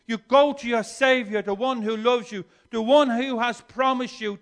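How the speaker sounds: fervent call to the Savior; preaching with force. Acted. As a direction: proclaim it to the room.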